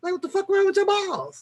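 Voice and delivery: high, fast incredulous outburst; can't believe what she heard. Real, not acted.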